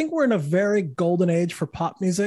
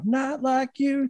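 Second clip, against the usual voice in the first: high, slow Canadian singer's vowels; Canadian accent; 7 semitones higher, slower than usual. Retold or imitated. Imitating a Canadian rock singer's accent at a concert, high and slow. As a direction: sing it like a Canadian saying sorry. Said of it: "really thick Canadian accents".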